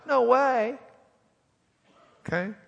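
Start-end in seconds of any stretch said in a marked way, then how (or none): 0.1-0.8 high, loud "No way"; emphatic no way. Retold or imitated. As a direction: fling out a slangy refusal. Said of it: "could translate real good like".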